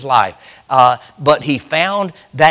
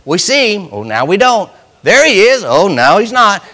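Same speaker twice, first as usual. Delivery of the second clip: mock disciples in boat; 4 semitones higher, 4 dB louder than usual. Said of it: "it was going".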